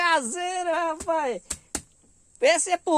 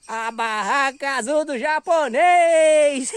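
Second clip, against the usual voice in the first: drawn-out shout; 4 dB louder, much slower than usual. Real, not acted. Shop sign-off.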